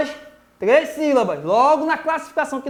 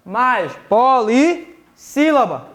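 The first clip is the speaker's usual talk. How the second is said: ordinary talk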